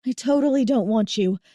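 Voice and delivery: breathless denial; panting. Acted. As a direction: pant the words out. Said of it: "I pant".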